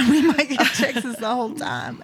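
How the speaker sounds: a light, laughing put-on Texas accent; mock Texas accent. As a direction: play up a terrible Texas twang, laughing. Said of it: "make fun of me for my terrible accent".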